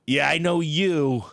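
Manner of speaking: grudging, slow "Yeah, I know you"; mock a reluctant stranger; a touch of grudging slowness; gruff quote. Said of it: "It's just like".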